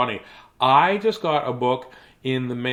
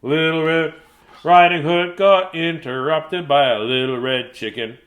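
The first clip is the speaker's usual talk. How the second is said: plain reading voice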